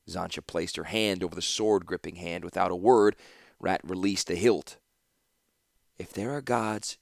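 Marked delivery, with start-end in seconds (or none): 6.0-7.0 quiet, gentle consoling words; soft, consoling murmur; softly. A narrator's reading. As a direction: speak softly to comfort him. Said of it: "she said softly".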